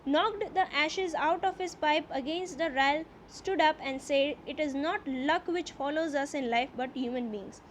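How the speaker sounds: slow, deliberate reading aloud of the English text; slow story reading. A narrator's reading. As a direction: read each phrase slowly, as a teacher before translating. (ધીમે ધીમે વાર્તાનું વાંચન)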